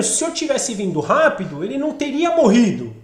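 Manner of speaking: pressing, accusing complaint; demanding reproach. Acted. Martha blaming Jesus for not coming quickly, demanding. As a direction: hold Him to account for the delay. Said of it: "quase que meio que cobrando".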